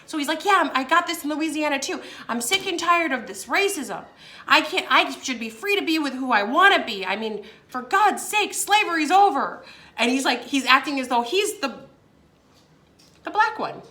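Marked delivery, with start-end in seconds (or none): 0.4-9.6 mild mock rant; imitated indignant outburst; going off. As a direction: act out a fed-up tirade, lightly raised pitch. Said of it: "he was, like, going off".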